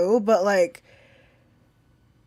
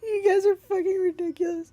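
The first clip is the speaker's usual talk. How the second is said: laughing; 10 semitones higher than usual. Real, not acted. Laughing at friends teasing.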